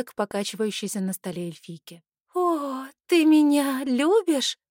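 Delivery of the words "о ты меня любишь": higher, louder, slow and moved; slow tipsy gushing; touched. A narrator's reading. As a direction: gush with drunken tenderness. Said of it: "умилилась леди".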